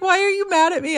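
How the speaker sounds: high, sad little dog voice; dog asking why you are mad; voicing the dog. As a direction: plead high like a hurt puppy. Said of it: "she just looks at me like".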